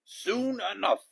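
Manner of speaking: high, loud, slow echo; crew echo. A narrator's reading. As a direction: chant it back like the crew. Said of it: "the crew repeated".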